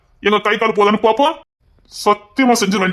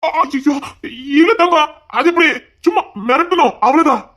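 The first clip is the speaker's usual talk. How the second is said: panicked denial; 6 semitones higher than usual. Acted. Panicking to calm crying daughter.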